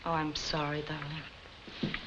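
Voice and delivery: soft, low condolence; tender and hushed; sympathetic. Acted. Wife consoles husband over lost deal.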